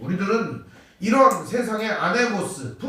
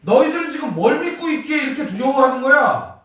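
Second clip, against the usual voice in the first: pointed rebuke; 5 semitones higher, 5 dB louder than usual. Retold or imitated. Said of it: "핵심적으로 하시는 말씀".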